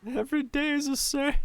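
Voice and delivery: high put-on character voice. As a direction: voice the game character. Quoting a game character.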